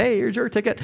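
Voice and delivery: excited greeting. Retold or imitated. Excited handing out tickets in dream.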